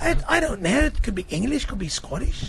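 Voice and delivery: wobbly accent between English and Scottish; uncertain British-Isles accent. Shown as a demonstration. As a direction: keep the dubious Scottish attempt going. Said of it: "That's a Scottish accent?".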